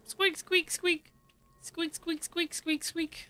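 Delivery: squeaky high-pitched mouse noises; rat squeaks. Pretend. Player newly turned into a rat in the game squeaks, high and squeaky. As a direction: squeak like a tiny cartoon rat. You are now a rat.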